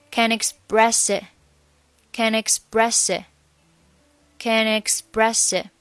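"can express it" run end to start; linked can express it. Shown as a demonstration. Teacher showing simple end-to-start linking. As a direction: chain "can express it" as one unit. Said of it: "Can和express以及it这三个单词可以连读的".

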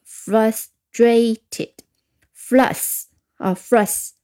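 slow teacher demo of frustrated, then flus; read-along demo. Shown as a demonstration. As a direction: sound out frustrated slowly, stressing flus. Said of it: "我们先来跟着我读两遍". (慢读 frustrated 并示范 flus)

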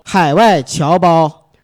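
very slow, loud grand greeting; cheerful new year wishes. Pretend. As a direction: draw out each word like a gala host. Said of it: "我以为你说咱模仿的这个开场呢".

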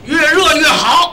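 slow, high, drawn-out order; emphatic ordering. Acted. Diner giving waiter a secretly reversed order, drawn-out emphasis. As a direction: stretch each word out for the waiter. Teller repeats the coded order.

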